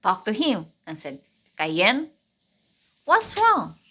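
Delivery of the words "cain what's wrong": higher, concerned questioning Father voice; a gentle father questioning his son; God asking Cain. Acted. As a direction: ask it with worried concern.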